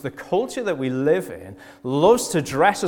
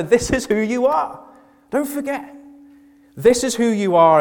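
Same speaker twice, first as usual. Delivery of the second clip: raised, high, impassioned urging; emphatic exhortation; 11 semitones higher, 8 dB louder than usual. Retold or imitated. Preacher voices Paul reminding the church who they are, emphatic exhortation. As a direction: press it home loudly, as a preacher voicing Paul.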